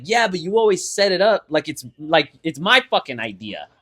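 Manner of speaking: cracking, straining voice. Real, not acted. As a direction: let the voice crack after a burp. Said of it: "made my voice crack".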